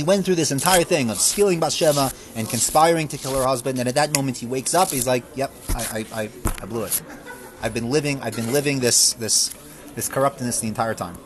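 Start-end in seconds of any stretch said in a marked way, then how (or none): 5.4-11.2 softer, lower admission with a wry laugh; rueful confession. Acted. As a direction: own the failure quietly, half laughing at yourself. David waking to his sin.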